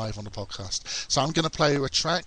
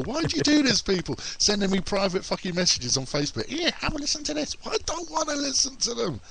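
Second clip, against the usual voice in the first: pitched-up playful complaint; exasperated rant; 10 semitones higher than usual. Real, not acted. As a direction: throw up your hands at them. Rant at listeners sending links.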